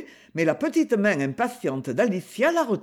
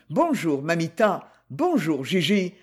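lightly voiced man, breezy and joking; bantering hello to the women; playful teasing tone. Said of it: "dit-il d'un ton badin".

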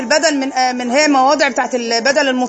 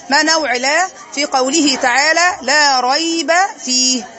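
slow dictation; slower than usual. Shown as a demonstration. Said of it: "teacher dictating question".

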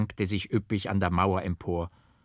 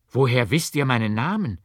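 louder, urgent, startled demand; vehement outburst; 4 semitones higher, 7 dB louder than usual. A narrator's reading. Monk startled that the priest knows his name, vehement. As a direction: blurt it out in alarm. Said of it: "Die Heftigkeit, womit ich diese Worte ausstieß".

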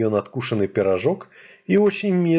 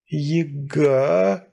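gasped out in a changed voice; stunned breathy gasp of a name; breathed out; 3 semitones higher than usual. A narrator's reading. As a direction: let the name escape on a breath. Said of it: "выдохнул зверь".

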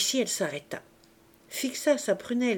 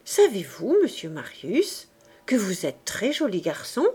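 strange coy tone. Acted. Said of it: "prit un air étrange".

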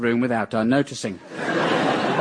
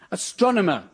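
higher-pitched imitation of a baby; piping up; 5 semitones higher than usual. Father retelling his little monkey's first words, piping up. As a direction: lightly mimic an infant piping up. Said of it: "piped up".

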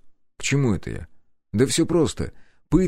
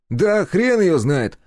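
much higher, louder, cheeky lad's voice; Step's voice; 10 semitones higher, 4 dB louder, much slower than usual. A narrator's reading. Step butting into the interrogation, cheeky high voice. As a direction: pipe up like a nosy young sidekick. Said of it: "пожал плечами он".

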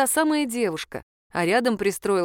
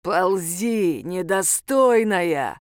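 рык; much slower than usual. A narrator's reading. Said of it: "рыкнул он ей в лицо".

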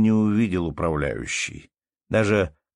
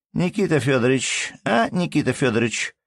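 calling from window; 7 semitones higher than usual. A narrator's reading. Anna Andreevna calls from the window for tea, high calling voice. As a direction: holler him in for tea. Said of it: "прокричала она".

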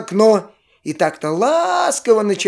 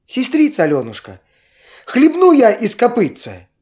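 put-on higher, pleading child's voice; little boy voice; 4 semitones higher than usual. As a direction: beg like a thirsty little boy. Little brother begs for water.

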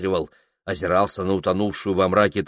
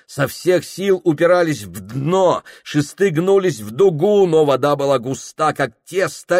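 rising, higher, urgent storytelling; tense narration; 5 semitones higher, 4 dB louder than usual. A narrator's reading. Narrator telling the raft struggle, tense and rising. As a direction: push the telling up as the poles bend.

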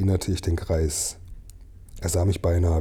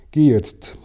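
raised, urgent order; urgent command; 6 semitones higher, 7 dB louder than usual. Acted. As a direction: push him to go now. Old man urges Mio.

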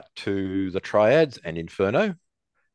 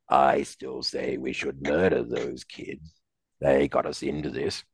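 sinister prisoner voice; 5 semitones lower, slower than usual. Acted. Escaped prisoner voiced in story.

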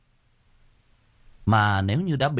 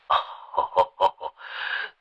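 smug chuckle. A narrator's reading. Sorcerer laughing off the curse, smug chuckle. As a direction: chuckle with relief. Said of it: "cười hình hạch".

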